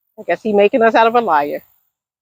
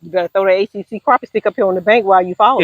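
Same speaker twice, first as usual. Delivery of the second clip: gentle teasing; faster than usual. Real, not acted. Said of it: "I was just kidding with you".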